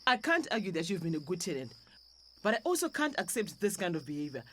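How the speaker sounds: cold firmness. Acted. Landlady evicting her tenant, quiet and cold. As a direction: shut her down calmly.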